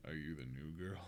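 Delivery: low, hushed anime-fanboy voice; copypasta character. Acted. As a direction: murmur it deep and soft.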